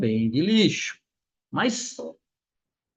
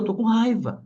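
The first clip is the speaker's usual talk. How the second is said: higher, lightly voiced child; imitating a small child's plain declaration; child naming anger; 7 semitones higher than usual. Five-year-old son telling dad he is angry, mildly cross. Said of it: "ele nomeou".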